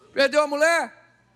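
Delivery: slow, loud, drawn-out payoff question; preacher's slow dramatic punchline. Acted. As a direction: land the last loss slowly and heavily. Punchline of the losses list.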